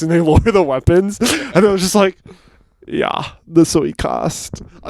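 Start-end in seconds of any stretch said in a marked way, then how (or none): 2.9-4.6 slow, drawn-out put-on European accent; campy mock European accent, slow. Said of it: "a gay European accent".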